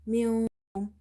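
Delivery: منكم with the n hidden in a nasal hum; ikhfa. Shown as a demonstration. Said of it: "Here is ikhfa".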